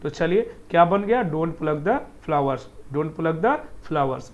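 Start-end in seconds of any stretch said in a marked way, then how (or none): 1.3-2.7 slow, careful model sentence; slow model reading. Shown as a demonstration. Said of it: "ऐसे ही repeat करिएगा". 2.9-4.3 slow repeat of the model sentence; slow model reading. Shown as a demonstration. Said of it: "ऐसे ही repeat करिएगा".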